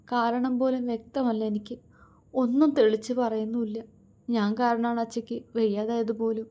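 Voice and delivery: a touch of sobbing under the words; understated weeping daughter; tearful. Acted. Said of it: "തേങ്ങലോടെ".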